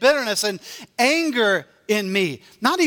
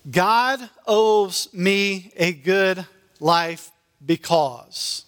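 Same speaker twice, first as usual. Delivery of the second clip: entitled mindset; much slower than usual. Retold or imitated. Slow voiced entitlement.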